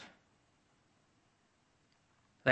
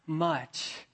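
tearful reply; 5 semitones higher, 4 dB quieter, slower than usual. Retold or imitated. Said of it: "he expected the response".

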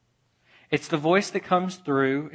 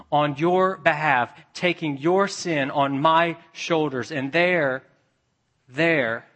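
raised, emphatic preacher's voice; impassioned preaching; 2 semitones higher, 4 dB louder than usual. Acted. God tells sufferer of bearing their pain, impassioned preaching. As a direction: press each phrase home with growing force.

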